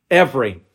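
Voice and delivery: Every said alone as its own sentence and firmly set down; one word, Every, landing with a falling close; preacher isolating Every; stress on every. Shown as a demonstration. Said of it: "The emphasis is on every".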